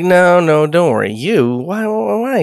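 mock panic, pitch jumping up on why; a touch of hammed-up distress; alarmed pleading. Deanna pleading with her son, mildly panicked.

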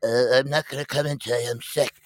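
mock poorly employee calling out; fake sick caller. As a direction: imitate someone phoning in sick. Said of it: "everybody's calling my phone".

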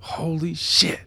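stunned whisper; shocked whisper. Acted. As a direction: hiss it in dismay. Realizes he is being listened to.

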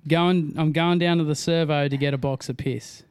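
broad Aussie slang demo; Australian accent. Shown as a demonstration. Australian setting a line for friends to copy, broad Aussie accent. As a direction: give the model Australian line. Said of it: "who's got the better Australian accent".

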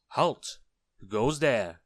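high, loud challenge; ringing sentry shout; sentry's cry. A narrator's reading. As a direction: cry out as a goblin guard at the gate. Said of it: "cried the goblin sentry at the gate".

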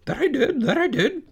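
high, loud, fast goose chatter; quick, loud honking goose voice; fast-talking goose. Acted. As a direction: rattle it off like a goose, repeating words. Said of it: "said the goose".

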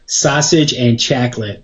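"sausage and chocolate" with Midwestern vowels, sahsage and chaklit; regional pronunciation. Shown as a demonstration. Words the wife says need work, Midwestern vowels. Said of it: "have to work on such words as".

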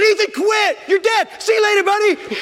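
very high, loud half-laughing scold; a dad scolding his son while laughing; laughing shout. Retold or imitated. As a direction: yell through the laughter.

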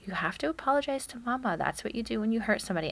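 a quick parent explanation to a little one; lightly coaching a toddler. Retold or imitated. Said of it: "Jason and I both were saying".

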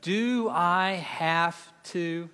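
slow drawn-out whine; whiny voice. Shown as a demonstration. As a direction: whine it like a sulky kid. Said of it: "I mean a real just".

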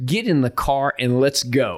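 slow, measured retold command; drawn-out, deliberate order played for laughs; fed-up order. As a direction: imitate a coach holding in his annoyance. Hungry, fed-up coach ordering him out.

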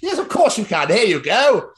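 high-pitched mock customer-service voice; hammed-up high helpful reply; obliging shop assistant. Acting shop assistant's reply to order.

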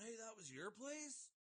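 high, slow, dopey camp coworker; mock coworker. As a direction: play the eager guy from camp. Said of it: "people coming up to me going".

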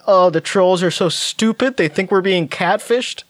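smirking mock. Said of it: "smirking and saying".

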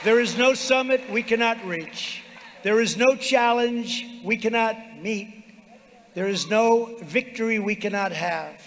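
roaring rallying speech. Real, not acted. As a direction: build the crowd to its feet. Rally climax, rising refrain.

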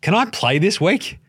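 a benched guy begging for minutes; meek player asking. Retold or imitated. Podcaster voicing benched Thybulle asking coach: slow timid plea. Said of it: "Matisse Thybulle's gonna be like".

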